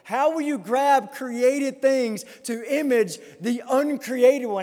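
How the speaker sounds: emphatic, slowed pulpit questions; challenging preaching. Real, not acted. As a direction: put the challenge squarely to the congregation. Closing challenge to congregation.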